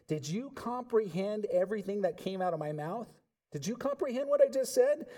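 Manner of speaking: a hint of an exasperated mom, pitch climbing; imitated mom. Preacher plays a mom scolding her child, mildly exasperated. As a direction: mimic a mom who's been ignored. Mom's question rephrased, rising.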